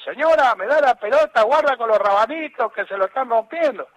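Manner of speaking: teasing call. Retold or imitated. Coach teasing him over balls in the stands, mock calling out. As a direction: imitate the coach heckling across the pitch. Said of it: "Me cargaba, me decía de todo".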